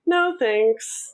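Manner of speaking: softened polite refusal. Shown as a demonstration. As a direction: say no without the judgment. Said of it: "a little less judgmental, maybe".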